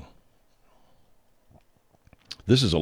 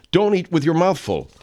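mock yelling; 8 semitones higher, 4 dB louder than usual. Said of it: "I'll start yelling at you".

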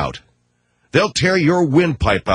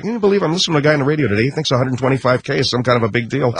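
fast, smug mock executive; mock Nike execs; much faster than usual. Nike guys mocking the radio host, fast and smug. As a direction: sneer at the radio guy. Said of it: "They're laughing. They're going".

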